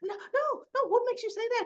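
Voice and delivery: very high, squeaky protest; hammed-up high-pitched flustered denial. Lucy denies to Martin that anything's up, high and flustered.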